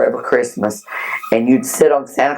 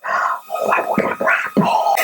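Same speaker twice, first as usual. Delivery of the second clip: put-on whining child; 3 dB quieter than usual. Child whining on Christmas Eve.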